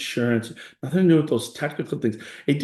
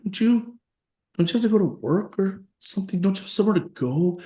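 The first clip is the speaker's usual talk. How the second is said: mom nagging; 6 semitones higher, faster than usual. Retold or imitated. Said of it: "She's like".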